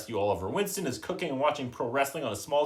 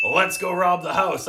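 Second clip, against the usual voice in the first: scheming; 5 semitones higher, 6 dB louder than usual. Retold or imitated. Fagin's scheming quote.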